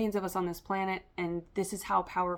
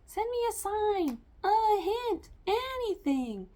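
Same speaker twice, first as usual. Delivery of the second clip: much higher, pleading cartoon-princess voice; Anastasia voice; slower than usual. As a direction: plead upward like a hopeful heroine. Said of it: "I'm getting Anastasia, where she's like".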